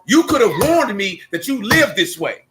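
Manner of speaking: mock-solemn, measured disapproval; retold indignation. Retelling his indignant speech to homeboy.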